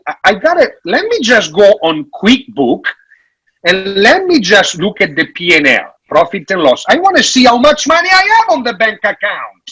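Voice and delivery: rising, hurried, fretful inner voice; worried business owner. Retold or imitated. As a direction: voice the owner fumbling for numbers at night. Acting out late-night budget check.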